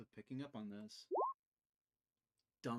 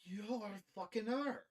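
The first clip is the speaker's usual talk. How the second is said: higher, louder angry outburst; furious accusation; 11 semitones higher, 10 dB louder than usual. Acted. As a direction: hurl the accusation from the ground. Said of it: "squints and says".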